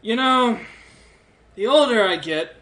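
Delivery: lightly voiced cranky old dwarf, grumbling; a tired elder scolding the young; lecturing old dwarf. Old dwarf lecturing the captured adventurer, mildly cranky. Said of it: "starts lecturing you".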